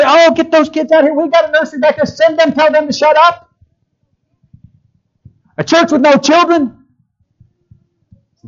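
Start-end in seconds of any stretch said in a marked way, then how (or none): 0.0-3.5 mock annoyed churchgoer. Imitating churchgoers shooing children out.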